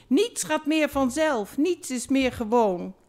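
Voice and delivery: a theatrical sob-voice on the phone; mock crying. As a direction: wail the lines like a heartbroken lover. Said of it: "Nu huilde hartwang per telefoon".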